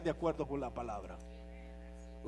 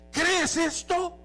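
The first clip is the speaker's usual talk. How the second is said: slow, much higher and louder, drawn out; high slow preacher's challenge; dramatic question; 10 semitones higher, 6 dB louder, much slower than usual. Acted. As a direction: lean on it as a searching challenge. Jesus asks Martha the question.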